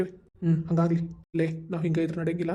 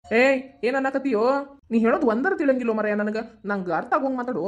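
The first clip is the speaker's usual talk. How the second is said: put-on higher, louder playful cooing at the baby; father playfully cooing to his baby son, higher and louder; baby talk; 4 semitones higher, 4 dB louder than usual. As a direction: talk to the baby like he can answer. Father coos to infant son.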